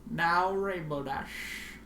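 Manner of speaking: slow, patronizing, drawn out; condescending. Acted. Twilight lecturing Rainbow Dash like a foal, condescending. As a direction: talk down as to a stupid foal. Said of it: "spoke as she was speaking to a very small, stupid foal".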